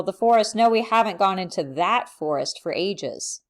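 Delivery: single out the forest with a strong "that"; stress on THAT. Shown as a demonstration. Answering about which forest they visited, stress on "that". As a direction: punch "that" before "forest". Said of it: "emphasis here on the word that".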